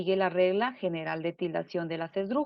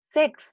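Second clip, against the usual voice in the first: "sex" alone, higher and louder; sílaba tónica aislada; 7 semitones higher, 6 dB louder than usual. Shown as a demonstration. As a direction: punch out "sex" as the stressed syllable. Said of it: "la fuerza de voz recae sobre". ("sex" con fuerza de voz, más agudo y fuerte)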